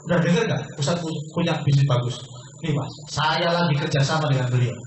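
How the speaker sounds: eager, upbeat bragging to a friend; enthusiastic demo. Shown as a demonstration. Salesman showing seminar how to tell friends, eager boast. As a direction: sell it like big news you can't keep in. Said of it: "Gini cara ngomong".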